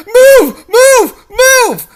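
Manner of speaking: high, loud commands; urgent shouted orders. Acted. Rescuer shouts at the princess to move. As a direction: bark at her to move.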